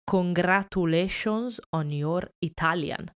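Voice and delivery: imitating someone speaking very slowly, word by word; slow, careful congratulations as if to a foreigner. Italian lady congratulating a supposed foreigner on the plane, very slowly. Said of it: "very slowly".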